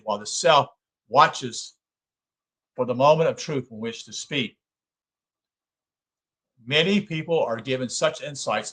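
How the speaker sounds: measured, formal book reading; reading aloud. Acted. Lecturer reading a psychology book to listeners, measured read-aloud. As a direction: read the text out in deliberate phrases.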